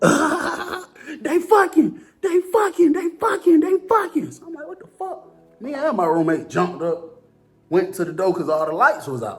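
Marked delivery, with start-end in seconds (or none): 0.0-4.3 very high screaming, dragged out. Recounting a night in lockdown when somebody screamed, imitating someone screaming. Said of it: "I hear somebody scream".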